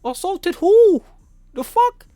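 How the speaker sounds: screaming back in outrage, slow on assaulted who; furious retort. Retold or imitated. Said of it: "I'm like".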